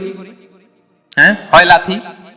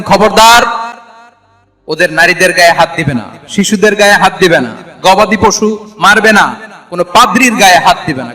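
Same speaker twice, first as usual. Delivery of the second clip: forceful raised voice of a commander's order; battlefield proclamation; 3 dB louder than usual. Retold or imitated. Prophet forbids troops to harm the innocent, battlefield proclamation. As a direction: proclaim each prohibition firmly to the troops. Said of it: "যুদ্ধের ময়দানে ঘোষণা দিতেন".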